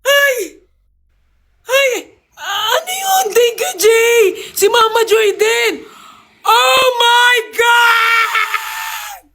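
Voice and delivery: shrieking with high-pitched joy; overjoyed squeal at a surprise gift; excited screaming. Real, not acted. Gift arrives, she screams.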